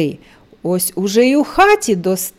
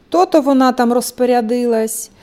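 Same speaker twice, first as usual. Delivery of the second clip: ordinary delivery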